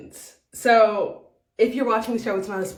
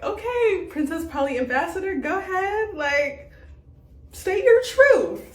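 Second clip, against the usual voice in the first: sarcastic cheer; 5 semitones higher than usual. Retold or imitated. Vlogger mockingly cheering a castmate's speech, high and sarcastic. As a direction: egg her on with exaggerated sweetness. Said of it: "I'm like".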